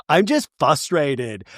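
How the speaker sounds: "frustrated" said as "fustrated", slowly; missing first R. Retold or imitated. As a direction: drop the R after F in "frustrated". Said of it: "She says fustrated".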